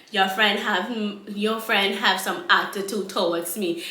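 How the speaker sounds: imitated Rastafarian accent; Rastaman accent. Rastaman complaining to her friend, imitated Rasta accent. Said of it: "in this goddamn accent".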